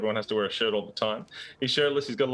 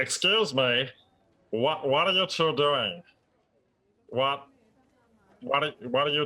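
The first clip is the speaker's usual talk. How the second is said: small cartoon duck character voice; 3 semitones higher than usual. A game narrator voices a duck interrupting two characters' duel: small duck voice. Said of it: "the little voice from between your knees belongs to that of a duck".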